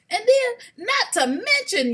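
loud high exasperated build-up; exclaiming loud and high. Real, not acted. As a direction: hit it like a heated rant. Heated rant building.

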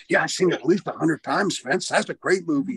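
eager, animated yes-man; sucking up. Retold or imitated. Wrestler flattering his boss about a movie, sucking up eagerly. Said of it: "I was really sucking up to him".

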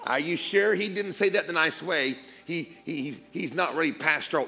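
a hint of a whiny nagging critic; lightly voiced naysayer teasing the preacher; mocking inner voice. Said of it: "there's that second voice going".

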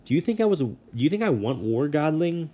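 high, loud furious bellow; bellowing god. A narrator's reading. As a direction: roar it at the boy like an angry underworld god. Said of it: "Hades bellowed".

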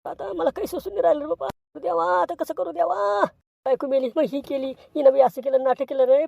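mock-tragic cry over the newborn; wailing to God. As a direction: beg the heavens like a broken man. Father wails to God.

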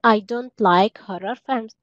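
careful teacher delivery; slow it for learners; lesson-pace example; slow model sentence. Shown as a demonstration. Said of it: "teacher models English sentence".

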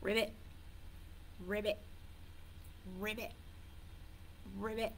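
soft, short, spaced ribbits; frog ribbit. Shown as a demonstration. Teacher giving children a frog riddle, soft ribbits. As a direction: croak small, separate ribbits. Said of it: "one more animal that goes".

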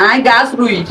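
Chittagong Bengali accent; Chittagonian dialect. Shown as a demonstration. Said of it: "আজ গা".

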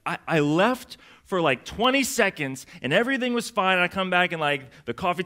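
mildly stunned parent, pitch lifted; disbelieving parent. Acted. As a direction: protest in mock disbelief. Acts a parent finding mess.

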